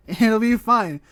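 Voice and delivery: loud, slow, laughing reassurance; nervous laughing. Real, not acted. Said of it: "I'm scared".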